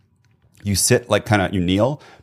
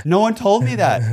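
amazed; 12 semitones higher than usual. Real, not acted. Amazed nobody taught him this.

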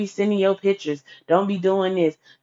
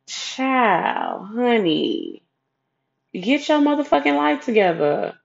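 exasperated; 5 semitones higher, slower than usual. Retold or imitated. Exasperated thought to a woman.

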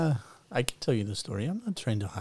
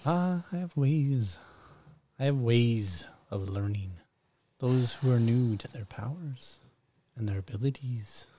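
mysterious wizard voice. Acted. Mystic shopkeeper hints powers.

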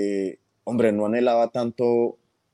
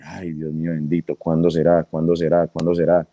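longing lament; 5 semitones lower than usual. Retold or imitated. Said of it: "uno era como que".

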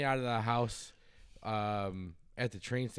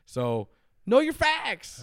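put-on Southern accent; 10 semitones higher, 7 dB louder, much slower than usual. Playful catchphrase sign-off.

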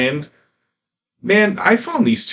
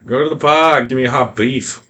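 mock Chicago accent; 3 semitones higher, 4 dB louder than usual. Joking Chicago local impression.

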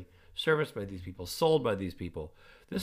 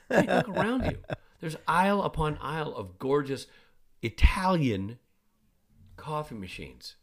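dad gushing over coffee machines to his son, eagerly; exclaiming; 5 semitones higher than usual. Retold or imitated. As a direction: sweep an arm at the aisles and gush.

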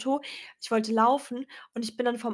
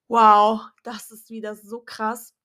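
amazed wow; 8 dB louder, slower than usual. Retold or imitated. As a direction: marvel at the sign. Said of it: "Und ich dachte mir nur so".

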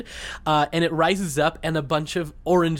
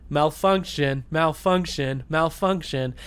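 repeated falling robotic malfunction; flat glitchy house computer; glitching robot; slower than usual. Retold or imitated. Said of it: "the house starts just going".

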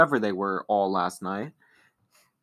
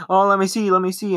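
high, louder taunt; teasing little brother; 9 semitones higher, 5 dB louder, faster than usual. Retold or imitated. Little brother grabbing at his sister's photos, high teasing. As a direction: needle your sister in a high voice.

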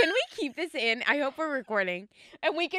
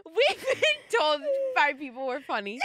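after laughing hard; 4 semitones higher than usual. Real, not acted. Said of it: "my stomach hurts from laughing".

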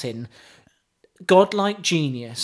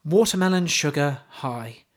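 mock poetry recital; 3 semitones lower than usual. Host reciting pop lyrics to co-host, mock solemn. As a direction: recite it like deep poetry, deadpan.

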